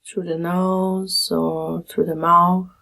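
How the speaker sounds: calm, measured meditation guide with long pauses; guided meditation. Acted. Meditation teacher leading listeners through a body scan, calm guiding voice. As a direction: guide them gently through settling, phrase by phrase.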